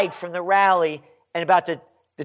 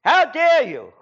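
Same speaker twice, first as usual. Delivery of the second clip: mock haughty leader; 6 semitones higher, 3 dB louder than usual. Mocks leader again.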